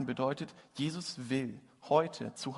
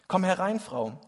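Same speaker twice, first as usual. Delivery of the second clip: louder, higher call to come in; 6 semitones higher, 7 dB louder than usual. Acted. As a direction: beckon her in from the cold. Martin calls to freezing mother.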